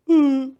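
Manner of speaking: loud drawn-out "ooh"; a little boy's big loud ooh; imitated "ooh". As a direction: call out one long "ooh". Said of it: "he was like".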